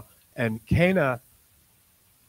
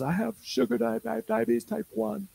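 much higher, halting quoted voice; tearful driver; 12 semitones higher, 3 dB quieter than usual. Retold or imitated. Crying driver tells the preacher about her diabetes, higher and halting. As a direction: lift into a choked, tearful reply. Driver answers through tears.

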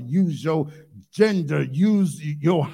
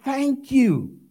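loud thanks; 5 semitones higher than usual. Acted. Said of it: "and with a loud voice said".

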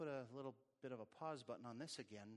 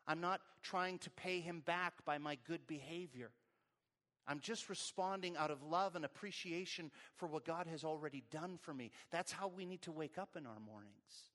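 raised, emphatic sermon voice; fervent preaching; 4 semitones higher, 6 dB louder than usual. Real, not acted. Preacher telling congregation how to wake up, fervent. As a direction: drive each point home with conviction.

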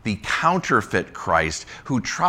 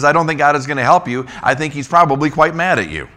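higher, louder sneering taunt, fast at the end; mocking taunt; 7 semitones higher, 6 dB louder than usual. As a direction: jeer at them like the enemy envoy. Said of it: "The Rabshakeh is, is saying".

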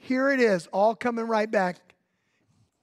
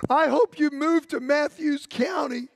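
laughing quote; 4 semitones higher than usual. Retold or imitated. Mother's happy reply retold.

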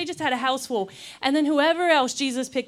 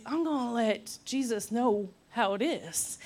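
indignant Martha; 3 semitones lower, 6 dB quieter than usual. Retold or imitated. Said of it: "Martha decides".

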